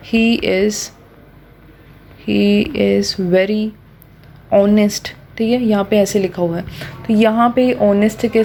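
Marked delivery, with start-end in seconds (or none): 0.1-5.1 slow dictation. Shown as a demonstration. Teacher reads example sentence to class, slow and spaced. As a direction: read out word by word, very slowly. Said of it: "अगर मेरे पास सिर्फ word honest लिखा होता".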